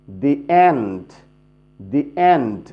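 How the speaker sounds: "the end" with "the" said as "dee". Shown as a demonstration. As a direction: say "dee" before the vowel in "the end". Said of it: "দি উচ্চারণ করতে হবে". ("the end"-এ the-এর উচ্চারণ "দি")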